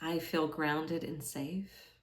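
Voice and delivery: calm meditation guide, leaving space after each phrase; guided meditation. Acted. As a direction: offer each affirmation gently, unhurried. Guides a meditation with sample affirmations.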